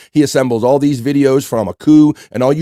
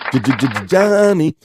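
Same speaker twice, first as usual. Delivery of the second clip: scratch-stutter the J, then a high "Johnny"; stuttered DJ-style name call; 4 semitones higher, much slower than usual. Pretend. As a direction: hype the name like a DJ drop.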